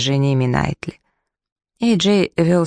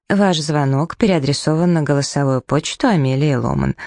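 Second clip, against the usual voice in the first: flat, even robot voice of voicemail. Acted. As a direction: read it like an automated voicemail robot. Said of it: "голосом робота сказала Амелия".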